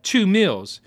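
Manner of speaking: put-on high, loud kid blurt; eager blurt.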